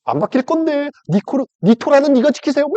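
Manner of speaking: high, teasing refusal; high snide devil; mocking Satan. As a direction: needle him in a high bratty voice. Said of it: "이러고 있어봐".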